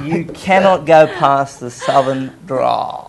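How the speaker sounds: slow, low southern drawl. Shown as a demonstration. Playful demo of a southern drawl.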